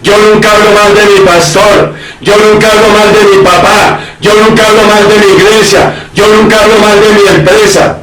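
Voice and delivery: a lightly voiced smug churchgoer; self-righteous claim. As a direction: parody the hypocrite swearing he never gossips. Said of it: "levante la mano y diga".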